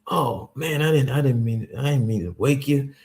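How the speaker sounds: lightly voiced apologetic pastor; pastor's voice. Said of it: "He'd be like".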